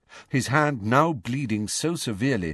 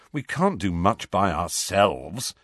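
defeated. Acted. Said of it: "in a defeated voice".

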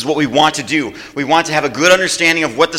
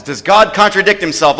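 raised question, pressing for an answer; emphatic question; 4 semitones higher, 3 dB louder than usual. Real, not acted. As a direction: push the crowd to answer. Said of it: "be really emphatic about this".

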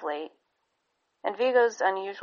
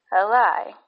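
put-on a small, faint baby voice, half a question; 3 semitones higher, 7 dB louder than usual. A narrator's reading. The baby's first words to his parents, faint and questioning. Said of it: "faint and carried the tone of a question".

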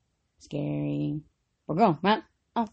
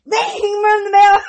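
higher and louder, a ringing call; mock bell call; 7 semitones higher, 7 dB louder, much slower than usual. Imitating bell announcement, acted.

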